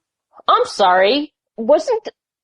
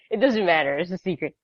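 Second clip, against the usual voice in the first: hushed aside; 6 dB quieter, faster than usual. Real, not acted. Dropping voice on secret.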